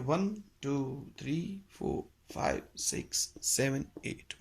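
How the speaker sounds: evenly spaced count of eight; counting the beat. Shown as a demonstration. Teacher counting the kahrva beat for students, evenly. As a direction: mark each beat clearly. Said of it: "eight बीट का rhythm होता है".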